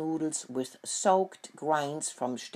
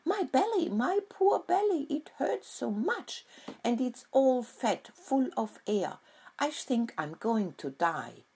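terrible wailing; 8 semitones higher than usual. Acted. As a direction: whine it out like a sick piglet, then sink. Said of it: "he wailed terribly".

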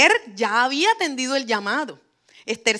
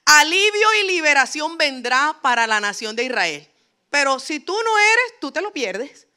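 louder, higher warning; emphatic warning; 4 semitones higher, 4 dB louder than usual. Retold or imitated. Mardoqueo warning Queen Esther she loses out, louder higher warning. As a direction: drive home the warning, pitch up.

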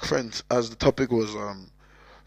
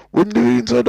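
put-on Cork accent; 12 semitones higher, 10 dB louder than usual. Cork accent, shouting crying.

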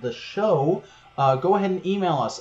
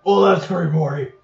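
cranky mad scientist voice, louder; Rick voice; 5 dB louder than usual. Acted. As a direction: sneer it like a jaded genius. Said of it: "this is my Rick".

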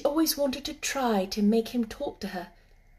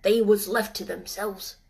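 put-on gruff old gardener; 4 dB louder than usual. Ben speaks.

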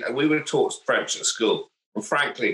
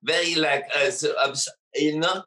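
lightly put-on French accent on English fillers; hesitant English with a silly French accent; mock French accent. Mocking how the French speak English, in a silly French accent. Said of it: "put that silly accent on".

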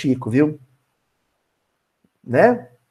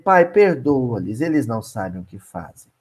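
dying words; 10 semitones lower, 5 dB quieter than usual. Acted. Jesus' dying words quoted.

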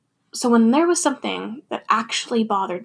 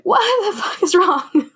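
higher, laughing mock friend; 9 semitones higher, 4 dB louder than usual. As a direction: play the baffled friend through a laugh. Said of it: "your friend's like".

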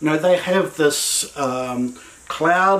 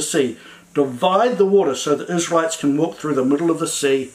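God's voice getting them moving; God urging. Retold or imitated. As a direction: urge the people to their feet. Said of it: "here's God's voice coming back in and says".

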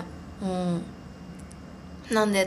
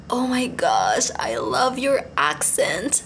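drawn-out, swooning fangirl gush; gushing admiration; much slower than usual. Acted. Fan wanting to compliment two strangers in a cafe, gushing admiration. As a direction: gush slowly in English, stretching the words. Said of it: "って言いたかったんですけど".

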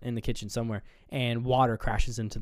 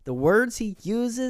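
mock outburst; 11 semitones higher, 4 dB louder, slower than usual. Imitating the rant.

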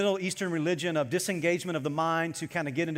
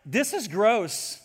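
slow disgust; 3 semitones higher, much slower than usual. Retold or imitated. Inner reaction to eating.

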